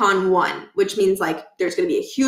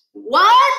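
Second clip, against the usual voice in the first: much higher, louder squeak; Stuart's excited what; 12 semitones higher, 7 dB louder than usual. Acted. Stuart hearing about the found quarter, excited. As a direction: jump on it, amazed.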